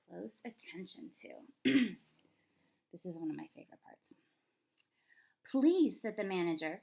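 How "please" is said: raised, higher, loud cry; manager's loud plea. Acted. Manager yelling in the store, loud. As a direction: sound like an alarmed store manager. Manager in story, scary yeller.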